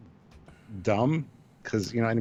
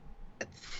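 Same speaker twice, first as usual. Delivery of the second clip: quiet, toneless mock sneeze; feeble fake sneeze; 17 dB quieter than usual. Co-host mocks Data's attempt at sneezing, feeble fake sneeze. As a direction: imitate a pathetic little sneeze.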